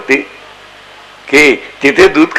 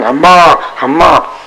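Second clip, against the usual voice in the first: anguished moo; 2 semitones higher, much slower than usual. Retold or imitated. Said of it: "दारात येऊन बसली आणि व्याकुळ".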